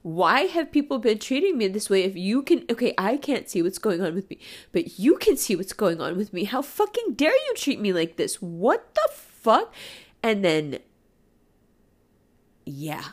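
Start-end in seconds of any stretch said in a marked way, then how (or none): 0.0-9.7 indignant outburst; angry. Real, not acted. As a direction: demand an answer, outraged. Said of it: "made me so angry".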